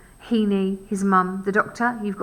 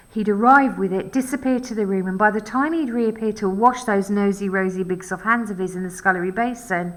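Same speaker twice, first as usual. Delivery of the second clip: breathless run-on verse reading; almost out of breath; 3 dB louder than usual. Shown as a demonstration. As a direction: rush the lines into each other without stopping for breath. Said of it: "almost getting out of breath".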